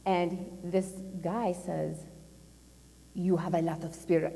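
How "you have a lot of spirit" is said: lightly put-on Russian accent. Russian boss at breakfast praising a guest, light Russian accent. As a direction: imitate a Russian with a slight accent. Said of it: "forgive my Russian accent".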